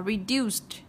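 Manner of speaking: "reduced" ending in a crisp st. Shown as a demonstration. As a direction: add a t sound after the s in "reduced". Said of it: "thêm E D vào chúng ta đọc là".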